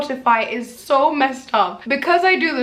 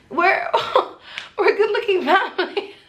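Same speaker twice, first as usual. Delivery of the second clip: laughing boast; 9 semitones higher than usual. Pretend. Bragging about her good-looking family to viewers, laughing. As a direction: repeat the brag higher through a laugh. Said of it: "repeats the boast higher, laughing".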